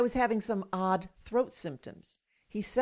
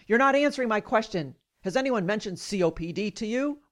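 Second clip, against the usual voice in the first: imitated yelling. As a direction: scold like an angry doctor, easing off. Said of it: "yelled at me".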